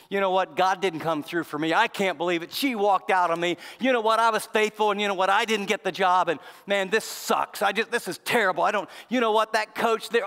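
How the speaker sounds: mildly acted exasperated complaint; piled-up grievances, lightly dramatized; venting hurt. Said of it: "they start saying some of these things".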